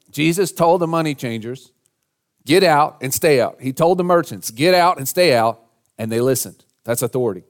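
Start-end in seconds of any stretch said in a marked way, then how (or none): 2.4-3.6 louder, firm retold order; preacher voicing a forceful dismissal; firm command. Jesus ordering out money changers. 4.5-5.6 louder, firm retold order; preacher voicing a forceful dismissal; firm command. Same order to the merchants.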